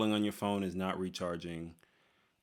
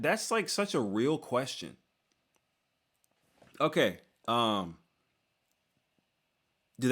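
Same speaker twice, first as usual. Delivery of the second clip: excited surprise; 6 semitones higher than usual. Real, not acted. Surprised by sincere fan question.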